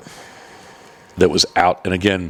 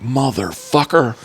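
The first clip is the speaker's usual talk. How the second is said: slow, drawn-out mock angry curse; retold angry curse; 5 semitones higher, much slower than usual. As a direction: drag the curse out like a restrained fit of anger. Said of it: "I was angry".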